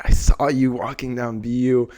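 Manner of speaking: a touch of mock condescension; condescending. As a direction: lightly imitate a snide friend. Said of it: "Said it in a little condescending way".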